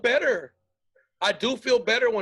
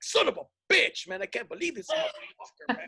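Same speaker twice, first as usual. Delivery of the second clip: fake anger; 4 semitones higher than usual. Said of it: "I'm like".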